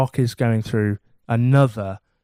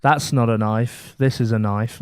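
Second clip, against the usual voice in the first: Crocodile Dundee quote; 2 semitones lower than usual. Retold or imitated. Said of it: "that's what he says".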